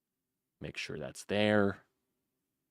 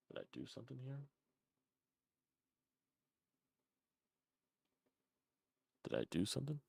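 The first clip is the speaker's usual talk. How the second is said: softer, puzzled mumble; mumbling to himself; 9 dB quieter than usual. Real, not acted. Host alone with a broken mixer, quiet mumble. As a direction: wonder aloud under your breath.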